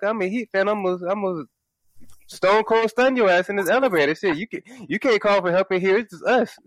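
worked-up, joking intimidation; mock threat. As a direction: threaten her in hammed-up outrage. Acted threat to lady in elevator.

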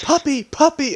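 high-pitched calling. Retold or imitated. Imitating the woman calling her dog, high-pitched calling.

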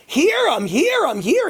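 very high, urgent mock yell; retold scream. Host re-enacts running to the front, high-pitched yelling. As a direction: re-enact calling out while running forward. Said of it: "and I screamed".

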